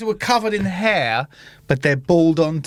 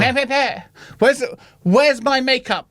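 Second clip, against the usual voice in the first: high, whiny drama-student voice; precious young actor, pitched high; drama school kids; 6 semitones higher than usual. Acted. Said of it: "like, drama school kids".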